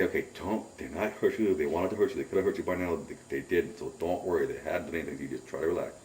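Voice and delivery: low, soft talking-yourself-down voice; calm yourself quietly, as to a frightened friend; subdued, soothing murmur; retold self-reassurance. Retold calming himself while scared.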